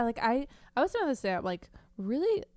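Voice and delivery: speaking through a hand over the mouth; muffled, covered mouth. Real, not acted. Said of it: "it's kind of muffled".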